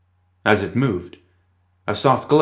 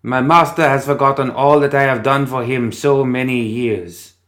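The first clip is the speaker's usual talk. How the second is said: higher, louder plaintive puppet voice; changed voice and accent; 4 semitones higher, 4 dB louder than usual. Acted. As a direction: switch to a new pleading voice. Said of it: "The marionette's voice and accent changed".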